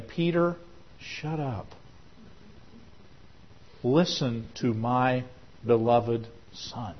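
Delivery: slow, soft stern rebuke from heaven; voice of God. Acted. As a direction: hush him gently but firmly. God rebuking Peter, retold.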